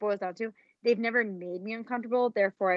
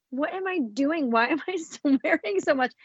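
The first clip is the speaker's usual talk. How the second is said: higher, slow, laughing self-reproach; exasperated at herself; 5 semitones higher, slower than usual. Retold or imitated. Host hearing herself swear on playback, laughing dismay. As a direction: groan at your own habit with a laugh. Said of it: "sometimes I'm like".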